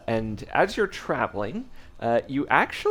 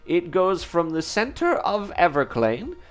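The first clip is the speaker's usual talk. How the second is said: put-on high-pitched old man sharing news; old local man, voice lifted high; 9 semitones higher than usual. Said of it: "says an old man".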